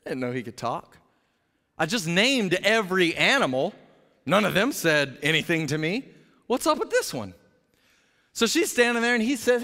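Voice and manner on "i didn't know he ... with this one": lightly voiced clueless husband; a hint of a dim, aloof husband; puzzled husband wondering at a talking snake; aloof Adam. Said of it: "standing there next to her going".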